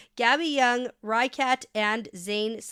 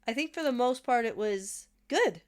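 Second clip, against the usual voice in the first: said through a smile; smiling. Real, not acted. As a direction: let the smile come through. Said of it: "you're smiling when you say good".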